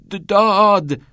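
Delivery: stammered, high and scared yell; trembling, frightened yell. A narrator's reading. Scared pupil tries to yell for teacher, trembling yell. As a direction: force out DAAD fearfully, stuck on the first sound. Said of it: "تاد با صدایی لرزان و هراسان گفت".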